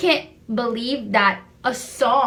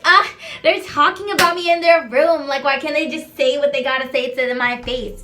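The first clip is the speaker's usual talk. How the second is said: mimicking a fake, whiny phone gripe; mock complaining; 2 semitones higher than usual. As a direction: put on a show of being wronged.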